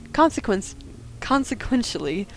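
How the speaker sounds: fast, deadpan official statement; mock formal report. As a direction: read it like a sworn police report.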